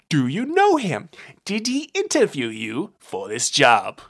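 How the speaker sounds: loud, pushy hard-boiled detective, pitch jumping up; bully the bartender for answers; blustering tough-guy detective voice; gruff detective. Acted. Brunt confronts the bartender.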